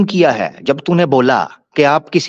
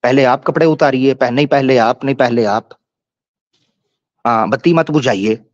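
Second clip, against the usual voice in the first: mock shy bride, lightly voiced; a hint of a bashful bride; coy bride mimicry; 3 semitones lower than usual. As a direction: tease him as a coy new bride. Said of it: "पहली रात की दुल्हन की तरह".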